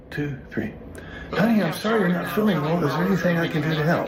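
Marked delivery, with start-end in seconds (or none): 1.3-4.1 a bit more caring, with a laugh at the end; warmer sympathy. Shown as a demonstration. Husband practicing comfort line for sick wife, warmer with a laugh. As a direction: lean into the sympathy this time. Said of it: "Let's try it again".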